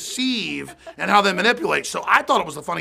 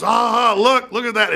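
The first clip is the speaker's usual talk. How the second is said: mock gleeful outcry, higher and louder; hammed-up "look at that!"; McBreen; 4 semitones higher, 5 dB louder than usual. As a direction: point it out as if catching someone, loud. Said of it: "and then McBreen goes".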